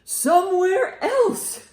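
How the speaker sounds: drawn-out, high and loud whine; high slow plea. Acted. Elephant begging Piggy to get the birds off. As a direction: stretch it out, begging.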